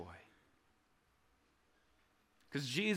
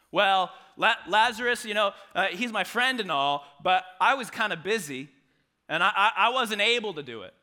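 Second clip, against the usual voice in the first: mock excuse-making; 3 semitones higher, 6 dB louder than usual. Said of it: "He doesn't say".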